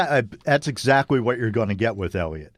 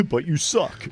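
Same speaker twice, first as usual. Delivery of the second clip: put-on Canadian accent; 3 semitones higher, slower than usual. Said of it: "pretty terrible Canadian accent".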